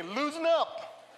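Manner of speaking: drawn-out loosen up; slow, emphatic repeat-after-me; slow call-and-response. Shown as a demonstration. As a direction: say it slowly for them to repeat. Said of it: "Say the word with me".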